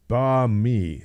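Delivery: "ba mi" said slowly, no n; careful Vietnamese pronunciation. Shown as a demonstration. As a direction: draw out "ba mi" as two separate syllables. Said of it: "it's pronounced".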